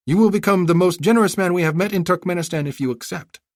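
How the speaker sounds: put-on a clever girl haggling sweetly; young girl voice. Girl pleading politely.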